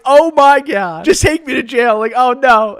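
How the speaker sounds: high, loud mock-despairing outburst; dramatized panic. Teen told by an officer to call mom, acting out loud panic. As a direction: wail it out in exaggerated dismay.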